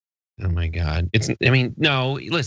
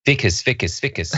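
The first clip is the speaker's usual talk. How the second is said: put-on South African accent; 2 semitones higher than usual. Shown as a demonstration. Getting back into character with a trigger word, South African accent. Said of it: "That was my trigger".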